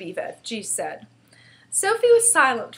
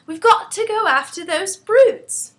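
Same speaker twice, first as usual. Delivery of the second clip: put-on high-pitched, impassioned girl crying out; a child's indignant outburst; distressed outcry; 10 semitones higher, 5 dB louder than usual. A narrator's reading. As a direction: plead urgently in a high voice. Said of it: "she stood up and cried out".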